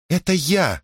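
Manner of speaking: put-on high, sheepish girl's voice; embarrassed mumble. A narrator's reading. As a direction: own up awkwardly, embarrassed. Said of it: "смущённо забормотала девушка".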